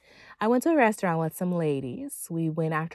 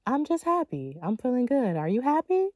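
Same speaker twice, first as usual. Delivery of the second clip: cheery sing-song; 5 semitones higher than usual. Shown as a demonstration. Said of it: "And just say".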